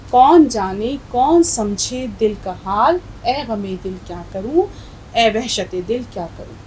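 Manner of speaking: measured Urdu verse recital; poem recitation. Acted. Teacher reciting the nazm to her class, poem recitation.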